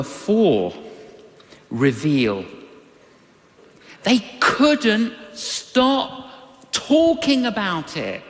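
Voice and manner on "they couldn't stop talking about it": high, slow, word-by-word emphasis on "couldn't stop talking"; slow emphatic phrasing. Acted. Repeated line, punchline swapped in.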